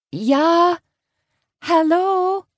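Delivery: high, loud Pennsylvania Dutch greeting; Pennsylvania Dutch accent. Acted. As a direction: sing out a Pennsylvania Dutch hello. Karen doing her Dutch-accent greeting.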